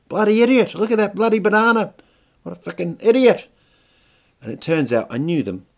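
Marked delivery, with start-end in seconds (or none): 0.1-3.5 loud, high-pitched Kiwi jeer; Kiwi accent. Acted. Young guy in a car mocking the banana mascot, Kiwi accent. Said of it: "Real Kiwi kind of".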